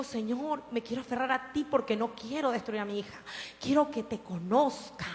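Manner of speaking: soft, pleading prayer; hushed mother's plea; tearful prayer. Retold or imitated. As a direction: beg God quietly, near tears. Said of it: "le he llorado a Dios, le digo".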